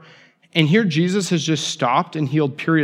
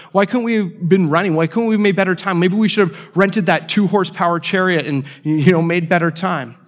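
raised, exasperated complaint, picking up speed; mock frustrated rant; 4 semitones higher than usual. Father whose daughter died, venting at the delay, exasperated and raised. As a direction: vent like a father held up too long. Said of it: "to angry".

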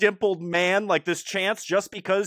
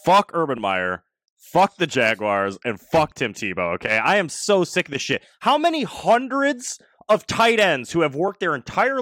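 loud, furious rant; 3 dB louder than usual. Real, not acted. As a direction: curse them out in outrage. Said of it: "I'm so furious about this".

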